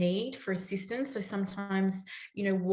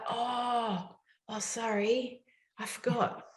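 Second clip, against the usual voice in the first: sheepish; 3 semitones higher, 4 dB quieter, slower than usual. Retold or imitated. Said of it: "he's like".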